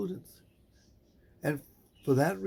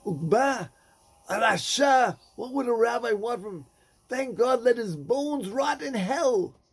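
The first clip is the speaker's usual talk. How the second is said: scornful; 6 semitones higher than usual. Acted. Townspeople scorn Ukba to the rabbi, contemptuously. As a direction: spit out the name with disgust. Townspeople curse the dead man.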